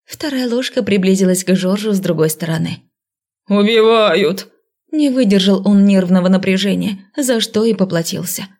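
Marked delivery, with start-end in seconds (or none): 3.5-4.5 drawn-out terrified wail; panicked cry. A narrator's reading. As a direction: cry out for help. Spider panics, cries out.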